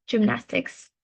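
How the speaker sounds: "gymnastics" said carefully on its own; pronunciation demo. Shown as a demonstration. Teacher modelling pronunciation for student, careful "gymnastics". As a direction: model the word "gymnastics" clearly. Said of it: "So the pronunciation".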